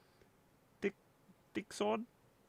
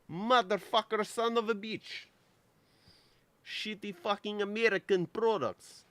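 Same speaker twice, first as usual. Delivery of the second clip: cursing; 3 semitones higher, 5 dB louder than usual. Real, not acted. Cursing at the dropped connection.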